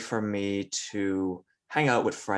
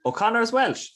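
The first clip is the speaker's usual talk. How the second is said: surprised; 6 dB louder than usual. Real, not acted. Learns surname is Welsh.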